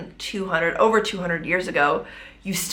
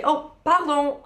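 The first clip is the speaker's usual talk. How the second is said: light, higher-pitched "pardon"; smiling polite apology; 8 semitones higher than usual. Retold or imitated. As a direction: say it through a smile, politely. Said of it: "I smile and I say".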